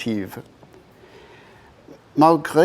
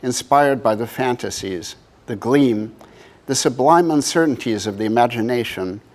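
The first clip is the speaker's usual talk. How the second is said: measured reading in phrases set apart by pauses; poetry reading. Acted. Artist reads the poem at the book's first presentation, measured poetry reading. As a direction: read it as verse, leaning into each phrase opening.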